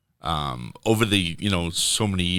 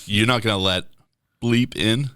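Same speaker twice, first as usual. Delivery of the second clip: quoting rapper; 3 semitones higher, 4 dB louder than usual. Retold or imitated. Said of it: "and says in, like, the third person".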